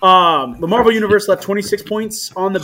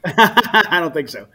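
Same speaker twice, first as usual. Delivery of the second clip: laughing; slower than usual. Real, not acted. Laughing through reply.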